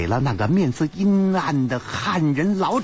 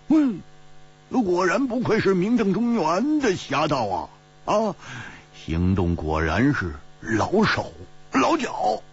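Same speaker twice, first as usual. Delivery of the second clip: bright, higher mock praise, a teasing lift; clapping, laughing praise; 5 semitones higher than usual. Hu Tiehua claps and teases the famous thief, playful. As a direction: cheer him on half in jest. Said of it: "拍着掌笑着说".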